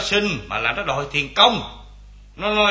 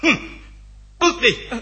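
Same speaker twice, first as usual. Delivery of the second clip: high, loud furious order to get out; angry shout; 8 semitones higher, 4 dB louder than usual. Acted. Stingy landlord yelling at his servant to leave, angry shout. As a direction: bark him out of the room, rising to a yell. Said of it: "ông la lớn dữ vậy hả".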